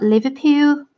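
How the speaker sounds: put-on butchered Liverpool accent. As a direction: have a rough go at a Scouse accent. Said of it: "I'm really butchering them".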